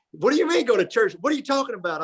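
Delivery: lightly imitated indignant friend, high-pitched. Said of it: "you do a pretty good impersonation of him".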